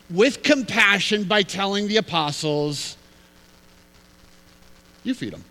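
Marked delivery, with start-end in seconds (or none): 5.0-5.4 "You" said lower and softer; a low, soft, calm order; low quiet quote. Retold or imitated. Jesus's reply, low take.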